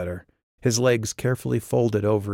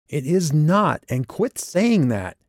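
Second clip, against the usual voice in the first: angry retort; 8 semitones higher, 5 dB louder, slower than usual. A narrator's reading. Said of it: "She glared at him".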